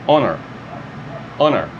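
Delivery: honor with a silent H, starting on the vowel; English pronunciation. Shown as a demonstration. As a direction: drop the H in honor. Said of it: "começar aqui com o Ozinho". (honor sem pronunciar o H)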